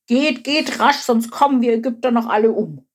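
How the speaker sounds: a touch of panicky pleading; wailing. A narrator's reading. The king begs the people to leave, mildly wailing. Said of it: "Doch dann jammerte er".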